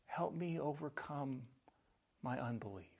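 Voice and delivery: the father pleads with Jesus; heartfelt cry. Acted. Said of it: "the father replies".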